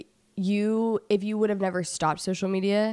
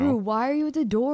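calling from far away; 5 semitones higher than usual. Real, not acted. Calling the dog at the door.

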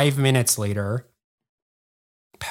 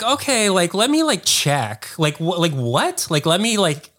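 higher, bewildered retelling of the moment; a flustered, half-mock "what is happening" voice; retold confusion; 5 semitones higher than usual. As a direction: replay the panic of not knowing what's going on. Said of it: "So I was like".

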